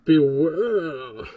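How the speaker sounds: loud, menacing one-word warning; ominous villain voice. Shown as a demonstration. Testing a villain voice for his game, loud and menacing. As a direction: boom it out like a villain. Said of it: "I can do this".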